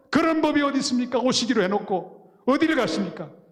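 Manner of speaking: play-acted very high, tearful, weeping voice. Retelling a phone call where the other side pleaded, imitating someone crying. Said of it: "막 울면서".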